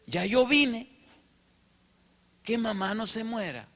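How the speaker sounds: high, pleading plea to God, retold; pleading prayer. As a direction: beg God for his mother's life, pitched high. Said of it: "le decía a Dios". (oración suplicante, aguda y angustiada)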